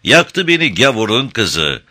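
put-on slow, sing-song Arab accent; Arab imitation. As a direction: imitate an Arab singer, drawn out. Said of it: "bir Arap taklidi yapacaktır".

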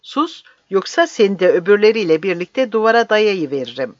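heated, commanding outburst; angry threat. Acted. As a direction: threaten him with force. Captain threatens the old man.

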